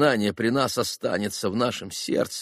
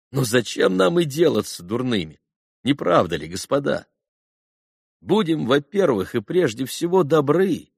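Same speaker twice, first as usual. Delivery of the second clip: raised, earnest oratory; heartfelt appeal; 5 semitones higher than usual. A narrator's reading. Алёша urges the boys to be good above all, heartfelt raised appeal. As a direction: urge them, voice lifting higher.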